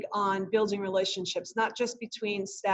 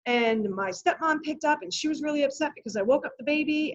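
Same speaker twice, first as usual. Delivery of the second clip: retold student's story; 4 semitones higher than usual. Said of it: "he went into a whole story".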